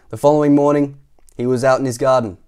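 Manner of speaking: loud opening, easing down line by line; story narration. A narrator's reading. Narrator tells children about the garden, animated storytelling. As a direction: start the new scene big, then settle. Reads the picture book aloud.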